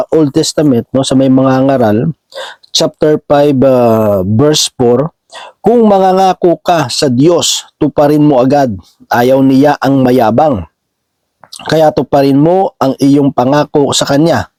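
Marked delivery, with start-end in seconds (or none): 5.6-14.5 measured, deliberate Bible reading; scripture reading. Acted. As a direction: read the verse out slowly and clearly. Reads a Bible verse aloud.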